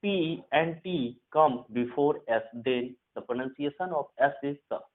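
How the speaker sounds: slow, deliberate rule dictation. Shown as a demonstration. Teacher to Hindi students, dictating the rule slowly. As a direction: spell out the rule word by word for students.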